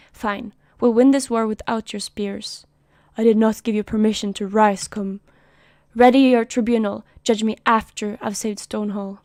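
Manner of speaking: loud, curt refusal, chin up; defiant commander. Acted. Commander brushes off the tribunal threat, loud and defiant. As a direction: bark back that you'll win it alone.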